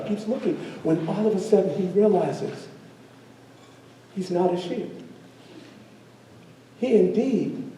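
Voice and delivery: soft narration with suspenseful pauses; story narration. Acted. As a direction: tell the moment of discovery quietly. Storyteller narrates the cub's realization.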